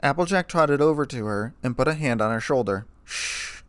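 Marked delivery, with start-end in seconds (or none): 3.0-3.6 whispered shush; soothing whispered shh; soft shush. A narrator's reading. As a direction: hush her gently, breath only. Comforting a crying friend.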